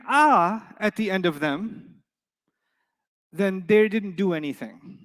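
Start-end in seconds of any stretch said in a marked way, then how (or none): 0.1-0.7 "ah" as an open a vowel; the ah sound. Shown as a demonstration. Teacher naming the case ending "ah". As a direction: say "ah" wide open. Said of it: "if you hear an".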